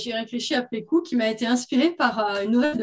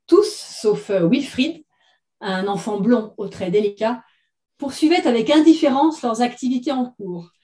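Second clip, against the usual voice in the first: measured literary read-aloud; story narration. A narrator's reading. Author reading her short story to listeners, story narration. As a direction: read it as written fiction, phrase by phrase.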